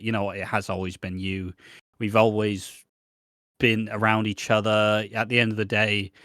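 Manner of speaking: a touch of tender sincerity, voice dropped; gushy. Retold or imitated. Trapped man declaring love to Stacey, mildly gushy. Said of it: "then they get back to the gushy".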